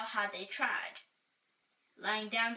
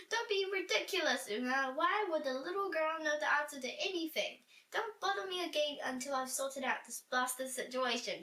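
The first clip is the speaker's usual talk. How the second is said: irritated king, a bit higher; grumpy tired king snapping; yelling king; 5 semitones higher than usual. Acted. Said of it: "he yelled".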